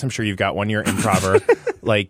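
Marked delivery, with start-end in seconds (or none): 1.8-2.1 parrot voice. Pretend. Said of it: "just do your parrot voice".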